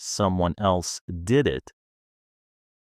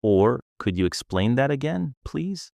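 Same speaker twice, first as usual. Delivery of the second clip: polite request; 4 semitones higher than usual. Shown as a demonstration. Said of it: "Use polite phrases like".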